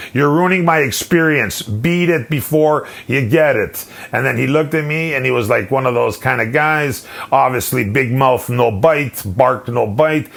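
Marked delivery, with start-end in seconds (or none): 0.1-3.9 higher, indignant brush-off; worked up, slowing into the final threat; retold rattled warning. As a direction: re-enact warning someone off. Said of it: "That's how rattled I was".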